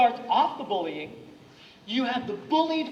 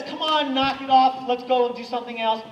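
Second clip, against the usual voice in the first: crowd telling them to stop; 6 dB louder than usual. Retold or imitated. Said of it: "When the crowd says".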